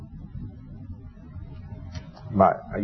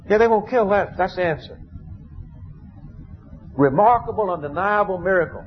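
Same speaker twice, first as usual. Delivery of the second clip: emphatic exclaim; 8 semitones higher than usual. Real, not acted. Preacher exclaiming at the miracle.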